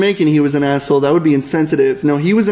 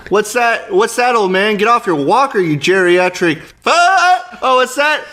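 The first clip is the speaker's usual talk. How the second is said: mock taunting; 3 semitones higher, slower than usual. Mock taunting of an old man.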